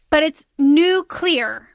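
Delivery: nuclear drawn out slowly as nook-lee-er; slow Texas nuclear; Texan nuclear. Shown as a demonstration. Texan guest showing the Texan nuclear slowly. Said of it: "when you say it like you're just saying it like a Texan".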